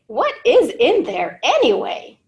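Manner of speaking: lightly voiced puzzled classmate; a hint of a nose-wrinkling kid asking; wrinkled-nose friend. A narrator's reading. Classmate Nadia, puzzled by the lunch, lightly voiced. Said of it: "will wrinkle her nose and say".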